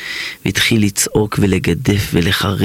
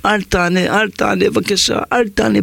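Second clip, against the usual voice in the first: crying; 9 semitones higher than usual. Acted. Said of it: "בוכה".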